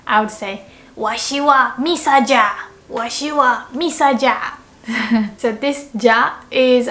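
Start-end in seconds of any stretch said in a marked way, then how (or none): 1.0-4.5 lightly voiced old anime elder; old anime person. Shown as a demonstration. Teacher plays an old anime person, lightly voiced. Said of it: "if I were really old".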